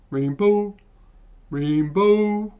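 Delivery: high, held puppet frog note; attempted Kermit. Player searching for a character's voice, Kermit impression. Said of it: "I'll try and mock up Kermit".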